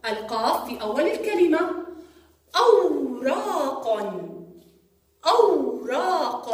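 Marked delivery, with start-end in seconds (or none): 2.6-6.5 أوراق drawn out, final ق stressed; slow teaching demo. Shown as a demonstration. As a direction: say أوراق slowly, landing on the ق. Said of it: "جاء حرف القاف في آخر الكلمة". (نطق أوراق ببطء مع إبراز القاف)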